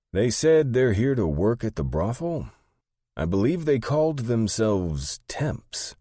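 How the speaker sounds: high, loud, slowing character voice; high-voiced underling reporting odd news; Sandy, bewildered assistant. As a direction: pitch it way up, puzzled.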